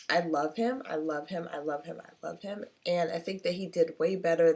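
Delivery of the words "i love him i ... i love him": fading repetition. Real, not acted. Gushing repeat, trailing off.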